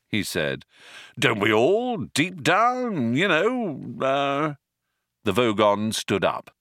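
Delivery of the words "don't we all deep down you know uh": high, wavering, tailing into uh; nervous. A narrator's reading. Ford placating the Vogon, nervous. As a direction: fumble for agreement, pitched up. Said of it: "Ford laughed a nervous laugh".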